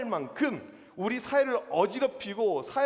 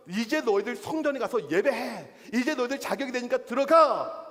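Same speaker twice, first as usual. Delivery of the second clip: commanding send-off; 4 semitones higher, 4 dB louder than usual. Acted. Jesus acted sending the healed in.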